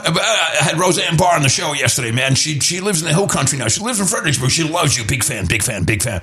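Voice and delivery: lightly voiced gruff radio host; a hint of a booming host, trailing off into "big fan"; Alex Jones impression. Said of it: "That's exactly how he talks".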